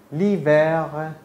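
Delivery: لیور stretched very slowly with a French r; slow model word. Shown as a demonstration. Teacher slowly models لیور with the article. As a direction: drag لیور out for the student. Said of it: "حالا با اختیک".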